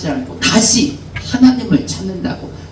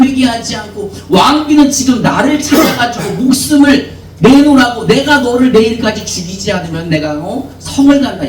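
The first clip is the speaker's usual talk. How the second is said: sulking complaint; 4 semitones higher than usual. Acted. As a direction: pour out hurt feelings like a sulking child. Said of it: "이런 식으로 이야기를 하잖아요". (하나님께 삐져서 투정하는 엘리야, 크고 서운하게)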